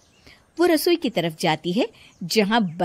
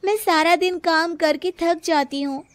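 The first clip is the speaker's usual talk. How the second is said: put-on higher young woman's voice, tired complaint; Priya complaining; 7 semitones higher than usual. A narrator's reading. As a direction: whine to mother-in-law about the workload. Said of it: "प्रिया कांता से कहती है".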